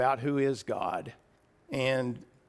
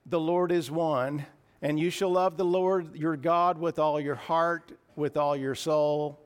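solemn scripture recital. Acted. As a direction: proclaim it to the church. Quotes Jesus reciting scripture.

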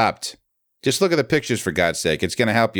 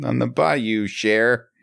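higher-pitched bad Cajun; mock Cajun accent; 4 semitones higher, much slower than usual. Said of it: "we can't do a Cajun accent".

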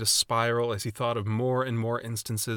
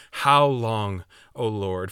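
louder, pleading cry to God; anguished plea; 4 dB louder, slower than usual. Retold or imitated. David crying out to God, louder and anguished. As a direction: cry it out in exasperation. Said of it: "How often have we asked the question".

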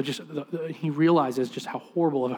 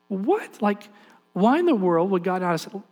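incredulous; 5 semitones higher than usual. Retold or imitated. Speaker voices disbelief at coincidence.

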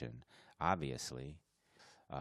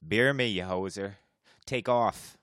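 louder hammed-up hoser demand; mock Canadian accent; 3 semitones higher, 8 dB louder than usual. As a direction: bark it like a rowdy Canuck.

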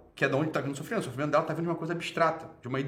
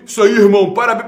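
mock congratulation; 6 semitones higher, 15 dB louder than usual. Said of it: "Aí a pessoa falou assim".

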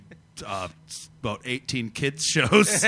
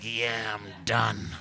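relieved when done; 6 semitones lower, 6 dB quieter, slower than usual. Retold or imitated. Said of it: "it's like".

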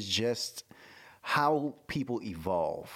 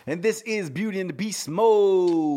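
announcer voice; 7 semitones higher, 7 dB louder, slower than usual. Pretend. Podcast intro, announcer hype.

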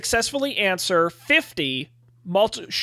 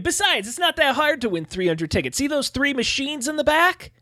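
lightly voiced arcade worker, higher-pitched; Owen; 4 semitones higher than usual. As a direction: pitch it up a little, persuading a customer. Plays the arcade attendant Owen.

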